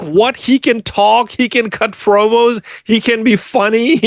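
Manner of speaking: high, amazed, each "he" lifted; amazed disbelief. Retold or imitated. Telling the hosts how shocked she was by him. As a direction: marvel at what he can do. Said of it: "I'm like".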